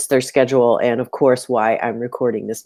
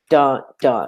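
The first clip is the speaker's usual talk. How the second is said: "dun, dun" as two evenly weighted beats; two equal stresses. Shown as a demonstration. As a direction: equal punch on each "dun". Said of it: "like two equal stress syllables".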